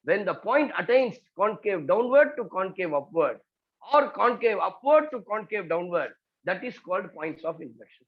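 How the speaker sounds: each word spaced out for note-taking; slow dictation. Shown as a demonstration. Maths teacher dictating a definition to students, slow and measured. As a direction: dictate it slowly so they can write.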